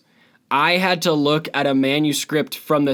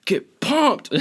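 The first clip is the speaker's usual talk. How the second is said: mock hype voice; 12 semitones higher than usual.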